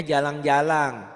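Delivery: "jalang-jalang" with each final n turned into ng; slow "jalang-jalang", nasal ng closing both halves. Retold or imitated. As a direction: imitate the Bugis learner, ending "jalang-jalang" on drawn-out ng. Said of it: "N-nya jadi eng ya".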